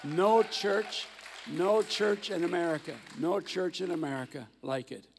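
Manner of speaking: loud, rising pride that builds on "No"; a preacher hailing his host church; emphatic praise. Real, not acted. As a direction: hammer home that no church compares.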